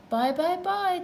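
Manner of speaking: high, loud calling after him; twins calling goodbye. A narrator's reading. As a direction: call after the car as twins. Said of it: "the twins called after him".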